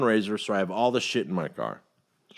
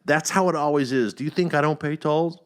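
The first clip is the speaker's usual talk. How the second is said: exasperated pleading; 5 semitones higher, 3 dB louder than usual. Retold or imitated. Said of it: "I'm like".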